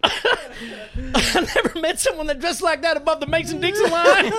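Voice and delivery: put-on high-pitched naive child voice through laughter; hammed-up country kid; mock Southern kid.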